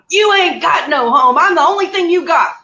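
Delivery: rising, exasperated mock retort; retold yelling. Daughter answering mom back, re-enacted yelling. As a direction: fire back at Mom, climbing in pitch. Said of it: "I'm yelling at her the whole time".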